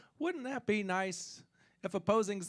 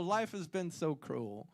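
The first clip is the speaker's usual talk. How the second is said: softer, sighing take on cruel; quiet, mock-weary lament; mock sorrow; 5 dB quieter than usual. Repeating the joke to the audience, a softer mock-sorrowful sigh.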